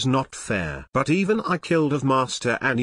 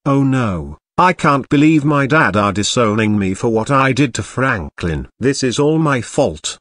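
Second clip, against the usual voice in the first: louder anguished lament; loud despair; 8 dB louder than usual. Acted. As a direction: cry out in regret. Son alone despairs after disowning.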